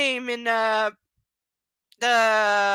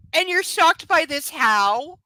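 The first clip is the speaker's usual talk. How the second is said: incredulous; 7 semitones higher, 7 dB louder, slower than usual. Real, not acted. Mocking the heroine's surprise.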